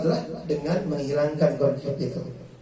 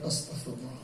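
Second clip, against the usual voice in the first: very soft, lower "Astagfirullah" full of feeling; heartfelt istighfar; 4 semitones lower, 15 dB quieter than usual. Shown as a demonstration. Preacher showing sincere istighfar, very soft and low. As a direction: breathe "Astagfirullah" softly, lower, with devotion. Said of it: "dengan penghayatan".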